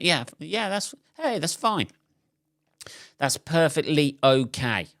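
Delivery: high, forced-casual cover; fake breezy. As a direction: pretend it's no big deal. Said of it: "I just went".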